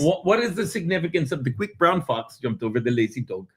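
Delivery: put-on distinguished British-Indian accent; refined Indian gentleman speaking. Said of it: "a distinguished Indian man".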